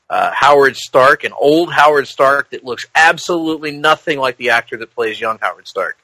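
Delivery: talking with a toothbrush in mouth; brushing teeth. Real, not acted. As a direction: speak while brushing your teeth. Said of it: "I'm actually brushing my teeth right now".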